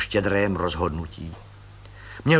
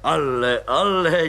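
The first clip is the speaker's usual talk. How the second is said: mild wondering surprise; a touch of astonishment; surprised; 4 semitones higher, 3 dB louder, slower than usual. Acted. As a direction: marvel at it. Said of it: "divil se plukovník".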